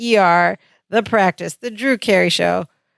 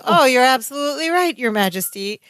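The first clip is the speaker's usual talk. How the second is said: acted higher-pitched nonchalant cover-up; playing it off; 5 semitones higher than usual. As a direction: cover an embarrassment with mock approval. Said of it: "He's trying to play it off".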